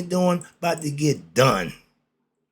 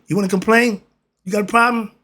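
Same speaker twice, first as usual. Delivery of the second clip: louder, challenging, daring them to speak up; mock confrontation; 5 semitones higher, 6 dB louder, faster than usual. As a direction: square up to the complainers, voice raised.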